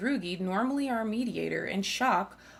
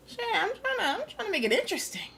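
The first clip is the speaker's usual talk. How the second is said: pitched up way high, whiny defence; mock high defensive voice; 12 semitones higher than usual. Real, not acted. Streamer defends his funny voices, squeaky high. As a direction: squeak it out in protest. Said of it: "I'm giving them the voices".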